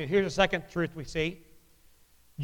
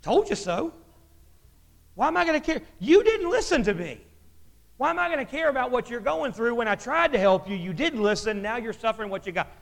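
smug told-you-so; 5 semitones higher, faster than usual. Retold or imitated. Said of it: "And me as a man says".

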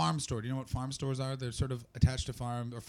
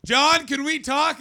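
loud, much higher, slow summons; stern boss call; 14 semitones higher, 11 dB louder, slower than usual. Retold or imitated. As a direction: call him in, fed up. Boss calling him in again.

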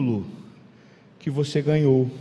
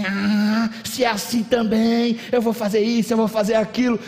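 mildly indignant quote, slightly raised pitch; 3 semitones higher than usual. Acted. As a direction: play someone indignant, with restraint. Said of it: "e você fica indignado".

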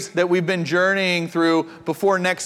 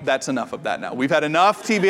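put-on a mild stern parent calming a child; lightly voiced stern parent; parent scolding; 4 semitones lower than usual. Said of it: "like a parent going".

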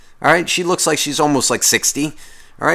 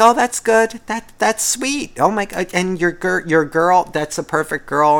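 mock sweet old lady; 4 semitones higher, slower than usual. Imitating the old woman.

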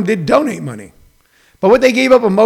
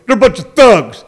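mocking critics; 2 semitones higher than usual. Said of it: "guys who looked like me and sound like me go".

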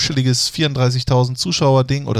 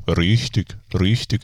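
Beckenbauer impression; 5 semitones lower, slower than usual. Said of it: "nach Franz Beckenbauer".

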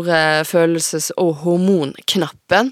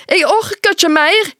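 much higher, slow, strained cry of a worn-out mother; high shrill mother; 12 semitones higher, 4 dB louder than usual. Acted. Mother on the phone to grandmother, high shrill and slow. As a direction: let it crack up high, slow, at the end of her rope. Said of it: "Stemma, den er høg og skingrende".

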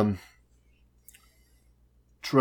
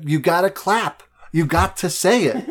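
exasperated urging; 5 semitones higher, 4 dB louder than usual. Retold or imitated. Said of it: "And I'm like".

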